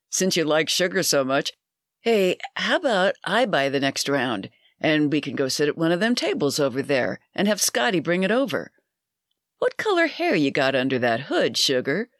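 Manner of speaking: a hint of a leering barfly; pushy barfly. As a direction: chat her up like a pushy regular. Bud keeps pressing the woman.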